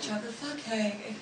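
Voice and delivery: "fudge" said like the F-word, quietly; soft replay of "fudge" turning into "fuck"; slip into a swear. Retold or imitated. Actress repeating her blooper, "fudge" sounding like the F-word. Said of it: "somehow said the F U C K kind".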